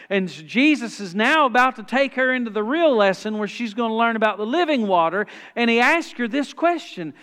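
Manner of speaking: animated preaching. Acted. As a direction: carry the Bible story along with pulpit energy. Preaches the story with force.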